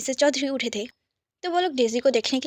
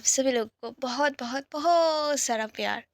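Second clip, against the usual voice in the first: whisper. Real, not acted. Narrator whispering to viewers before story. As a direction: hush it like a secret. Whispered intro over music.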